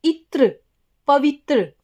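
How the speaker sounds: इत्र breathed out as a whisper with a falling end. Shown as a demonstration. Teacher whispering इत्र while splitting पवित्र. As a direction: whisper इत्र as the leftover part. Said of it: "फिर क्या है यहाँ पे?".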